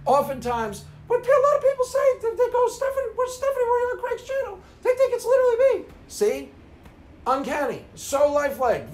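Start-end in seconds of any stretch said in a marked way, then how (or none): 1.1-5.9 very high, fast, falsetto woman's voice; Stephanie imitation. Mimicking Stephanie asking Craig, high falsetto and quick. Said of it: "My Stephanie imitation".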